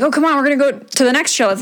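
fast, high, eager mimicry; quick mock-eager boyfriend; boyfriend urging. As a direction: rattle it off like him pushing on.

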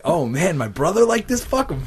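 rising high mock indignation; mock outrage. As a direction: play it up as petty outrage. Acted annoyed reaction.

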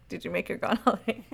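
"Did you make her" run quickly together; quick pronunciation. Shown as a demonstration. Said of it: "if you pronounce it quickly".

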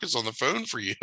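calling for Dad like it's huge news; excited calling out. Retold or imitated. Kid calls dad to the phone, excited.

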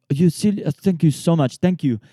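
high, loud hammed-up French accent; imitating a French bartender in a French accent. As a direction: lay on a French waiter's accent. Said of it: "he's a French guy".

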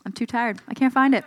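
said through a laugh; amused, laughing admission. Real, not acted. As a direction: laugh at yourself as you give up. Laughs at failing to find word.

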